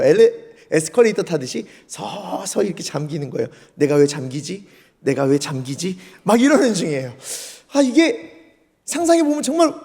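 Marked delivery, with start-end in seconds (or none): 3.7-6.0 low-pitched bemused self-talk; puzzled musing. Retold or imitated. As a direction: wonder aloud to yourself, voice dropped. Peter puzzled while slowly sinking.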